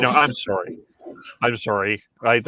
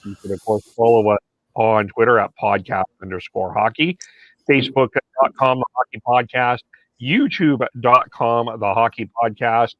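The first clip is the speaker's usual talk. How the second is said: podcast intro. Acted. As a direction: announce the show, stretching out key words. Opens the show with the host's intro.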